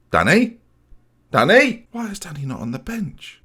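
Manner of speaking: rising, high-pitched alarm as it sinks in; stunned realisation at the bench; shocked disbelief. Real, not acted. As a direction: call out his name in panic. Realises star striker missing.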